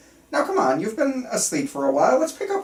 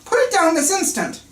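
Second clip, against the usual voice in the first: sharp, louder order to drop it; doctor commanding his patient to drop the gun, loud and urgent; stern command; 8 semitones higher, 5 dB louder than usual. Acted. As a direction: bark it like a panicked doctor.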